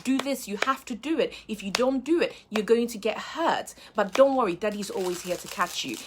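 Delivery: a hint of a father gently scolding; lightly voiced dad, firm then soothing; dad gently scolding his little daughter; gentle scolding dad. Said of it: "scolds her gently".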